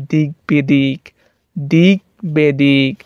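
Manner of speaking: slow দিক বেদিক, split before b; b unchanged. Shown as a demonstration. Teacher demonstrating for students, slow দিক বেদিক, b sounded. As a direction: stretch দিক বেদিক with a clear b. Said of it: "পরিবর্তন হবে না".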